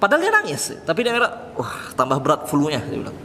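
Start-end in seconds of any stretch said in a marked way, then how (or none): 1.5-2.8 thickened voice. Retold or imitated. Scholar hiding his weeping as flu, lightly thickened voice. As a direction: lightly imitate someone blaming tears on a cold. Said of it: "Jadi suaranya memberat".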